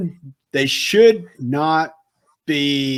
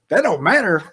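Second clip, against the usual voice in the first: "That don't matter" thrown back higher, in disbelief; indignant echo; 5 semitones higher than usual. Retold or imitated. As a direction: repeat "That don't matter" as an outraged echo, pitched up. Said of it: "I'm like".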